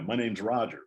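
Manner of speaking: imitating a hammed-up New York accent; big New York accent. New kid answering the Southern teacher, in a mock thick New York accent. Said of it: "biggest New York accent".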